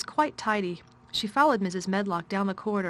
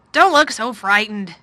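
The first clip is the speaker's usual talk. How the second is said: slow, concerned and a little raised; worried voice; 12 dB louder than usual. A narrator's reading. Guardian to a scared girl, slow and worried. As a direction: reassure her with slow worry. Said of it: "he said in a worried voice".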